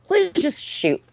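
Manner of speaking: begging to be put out of misery; exasperated pleading. Retold or imitated.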